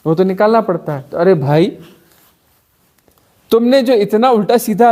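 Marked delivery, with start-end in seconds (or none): 0.1-1.0 quick raised no no no; a hint of an indignant listener; protesting objector. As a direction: mildly mimic a flustered objector. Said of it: "बोलते".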